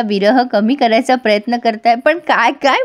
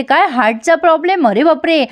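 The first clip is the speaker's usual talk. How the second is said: higher, fussy sister-in-law voice; Chhabi's voice; 5 semitones higher than usual. Acted. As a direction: pitch up into a nosy sister-in-law.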